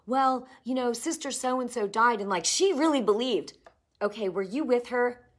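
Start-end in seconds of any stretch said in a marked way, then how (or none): 0.1-3.5 mock doubter. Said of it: "I've had people say to me".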